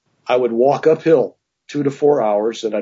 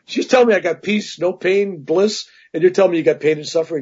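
indignant protest; 4 semitones higher than usual. Retold or imitated. Retold indignant protest to guru.

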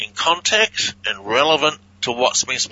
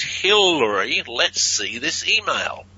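slow clear reading; 3 semitones higher than usual. Shown as a demonstration. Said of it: "we hear him say it backwards".

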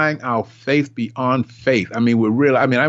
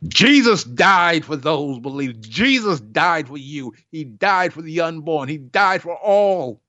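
preacher stressing Christ's sacrifice; 3 semitones higher than usual. Acted. Preaching build.

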